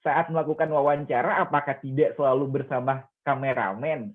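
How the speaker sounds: clearly voiced practice interview question; reading out loud. Shown as a demonstration. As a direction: read the script aloud, not silently. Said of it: "usahakan untuk dibaca. Contohnya".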